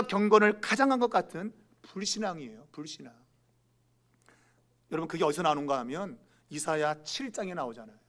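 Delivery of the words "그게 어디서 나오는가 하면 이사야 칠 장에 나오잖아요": ordinary talk, nothing marked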